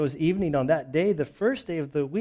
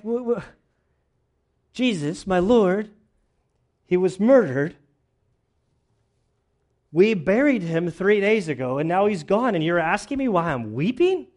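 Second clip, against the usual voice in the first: distraught Mary; 4 semitones higher, 4 dB louder than usual. Acted. Mary pleading over the missing body.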